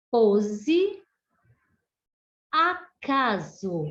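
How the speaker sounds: slow word list, each S voiced as Z; S com som de Z. Shown as a demonstration. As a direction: dictate slowly "preciso", "pesquisa", "acaso" with a buzzing Z for the S. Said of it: "ele tem o som de Z". (S pronunciado como Z, palavra por palavra, devagar)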